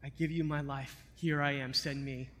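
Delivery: soft, low, hushed surrender; hushed vow of a convert; quiet surrender. Retold or imitated. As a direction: give it up quietly, almost whispered. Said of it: "He said".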